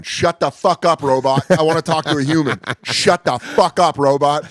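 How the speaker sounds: drawn-out exasperated retort to a robot; irritated, emphatic phone rant; retold angry outburst. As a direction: stretch out each word in mock fury.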